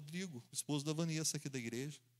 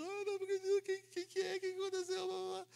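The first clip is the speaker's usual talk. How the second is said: high, far-off wailing voice; aunts crying in panic; faster than usual. Retold or imitated. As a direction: sob it out in shock. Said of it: "tudo já chorando".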